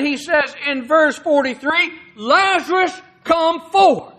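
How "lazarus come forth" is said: raised, commanding call; loud cry. Retold or imitated. Preacher voices Jesus calling Lazarus from the tomb, loud cry. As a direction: call it out firmly, pitched up a little. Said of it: "he cried out with a loud voice".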